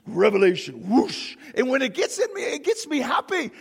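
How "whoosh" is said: whoosh. Shown as a demonstration. Imitates rush of revelation.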